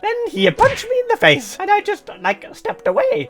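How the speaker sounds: hammed-up fake Italian accent with leaping pitch; terrible Italian accent. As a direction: put on a badly faked Italian accent. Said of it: "Use a terrible Italian accent".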